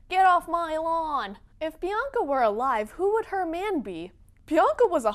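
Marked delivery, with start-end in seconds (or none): 0.1-1.4 put-on louder, slow, cranky old man; grumpy old man. Cantankerous author shooing kids off his lawn, grumpy. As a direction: growl at kids on your lawn. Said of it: "shakes cane".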